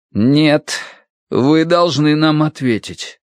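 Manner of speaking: archer's voice changed, firmly insisting; insistent demand. Acted. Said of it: "Его голос стал другим".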